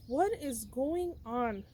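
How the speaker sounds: "What is going on" spaced out slowly, word by word; slow, emphatic "What is going on", every word separate; retold exasperation. Retelling frustration at no answer.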